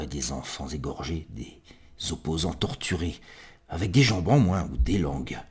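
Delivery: storytelling poetry reading, swelling and hushing; theatrical recital with pointed pauses; dramatic poem recitation. Acted. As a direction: build through the list, then drop to near whisper.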